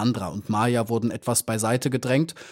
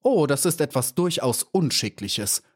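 ausgerufen; 4 semitones higher than usual. Acted. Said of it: "rief Cassandra".

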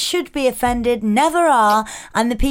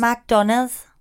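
"Mag-donners" with an Essex twang, rising end; Essex accent attempt. Shown as a demonstration. Co-host tests the hack, Essex accent. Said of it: "more of an Essex accent".

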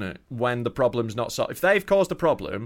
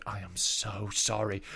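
mock apology; 5 semitones lower, 9 dB quieter, slower than usual.

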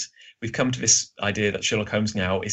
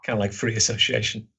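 getting husky, throat catching; slightly husky, needing to clear throat. Real, not acted. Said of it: "I'm getting huskier over here".

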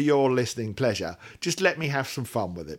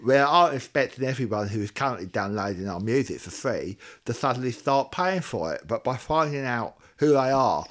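tongue sticking out. Acted. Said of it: "a person with their tongue sticking out between their teeth".

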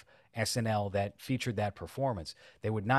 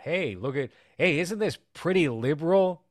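high, loud smug YouTuber parody; mocking YouTuber voice; 8 semitones higher, 5 dB louder than usual. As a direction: parody a preachy political YouTuber. Mocking a 2017 political YouTuber.

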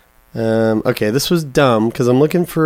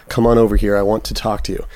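put-on understated Brooklyn accent, dropping at the end; a hint of Brooklyn, lightly done; Ryan Gosling's Brooklyn accent; 3 semitones lower, faster than usual. Host retries the line for co-host, light Brooklyn accent. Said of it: "It's Ryan Gosling's Brooklyn accent".

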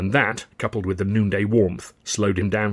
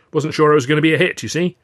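Charlie's voice; 6 semitones higher, 6 dB louder, faster than usual. A narrator's reading. Charlie quick aside.

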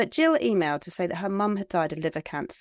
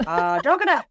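hammed-up Irish accent, a bit louder; 3 semitones higher, 5 dB louder than usual. Teasing the quiz host over her place name, mock Irish accent. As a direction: put on a terrible Irish accent. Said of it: "Didn't say it with an accent".

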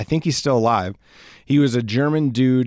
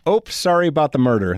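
higher mock-Canadian apology; casually sheepish Canadian caricature; 4 semitones higher, 3 dB louder than usual. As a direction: apologize in a badly faked Canadian accent. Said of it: "I don't have a good Canadian accent".

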